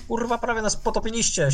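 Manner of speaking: high furious yell. Acted. Sailor yells at the crew above, nearly drowned, furious yell. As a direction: bellow it up at them, furious. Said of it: "się wydzieram do tego".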